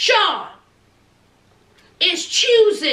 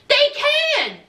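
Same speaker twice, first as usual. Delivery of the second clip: laughing shout; 7 semitones higher than usual. Real, not acted. Laughing outburst.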